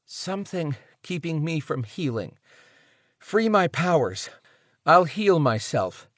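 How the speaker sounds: weak and short of breath; breathless. Acted. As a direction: gasp it out, barely any air. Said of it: "She dragged in enough air to say".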